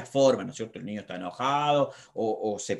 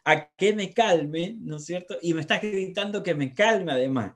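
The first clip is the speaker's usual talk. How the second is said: lightly voiced five-year-old, higher, louder and quick; a hint of a child pushing back at his shouting dad; child protesting; 5 semitones higher, 4 dB louder than usual. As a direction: plead like an upset little kid being yelled at. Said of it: "Y el niño dice".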